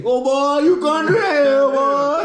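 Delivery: high, loud mocking boy's voice; mock Wisconsin boys. Wisconsin boys mocking a Southern newcomer, loud high jeer. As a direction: tease him like a Wisconsin kid. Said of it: "these boys say".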